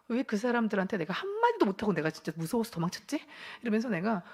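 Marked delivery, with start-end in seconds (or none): 0.1-3.3 mildly indignant self-questioning; retold annoyance at your own cowardice; angry at oneself. Woman asking herself why she ran away speechless, mildly angry. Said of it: "이게 화가 났어요".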